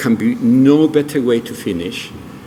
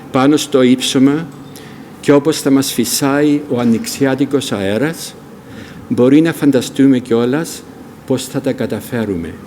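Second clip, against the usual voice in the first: poem reading; faster than usual. Acted. Speaker closing the evening with a beloved Greek poem, poem recitation.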